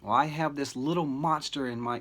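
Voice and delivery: mock a teacher's offhand grumble; lightly voiced teacher griping; imitated offhand teacher. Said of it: "I hear teachers describe these children as monsters".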